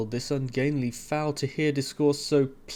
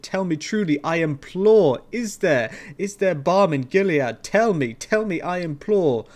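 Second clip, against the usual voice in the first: desperate plea; 3 semitones higher, 7 dB louder than usual. A narrator's reading. Narrator begging the raven about Lenore, loud and desperate. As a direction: beg the raven for the truth.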